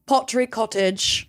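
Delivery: put-on a light British accent on "Pottery Cottage". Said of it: "to say Pottery Cottage in a British accent".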